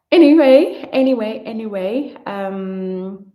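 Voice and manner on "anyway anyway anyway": sing-song anyway. Real, not acted. Resets after losing thread.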